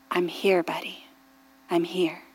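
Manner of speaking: put-on soft, low reassurance to a scared child; soothing mother. Mother soothing her frightened son Caleb, softly.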